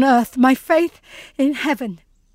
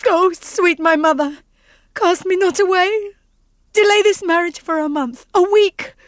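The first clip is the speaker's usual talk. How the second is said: rising, louder desperate plea; pleading; 4 semitones higher, 4 dB louder than usual. Acted. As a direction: beg her desperately. Daughter begs mother.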